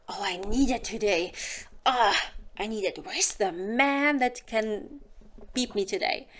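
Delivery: hammed-up craving good morning; half-joking horny wake-up, oddly voiced; mock lustful woman waking. A woman joking to viewers, mock needy. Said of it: "we do not wake up and say".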